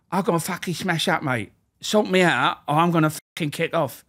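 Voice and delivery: high, whiny con threatening to kick off; guard mimics a scrawny inmate threatening to riot; threatening prisoner. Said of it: "I'll do a good one if you want me to do it".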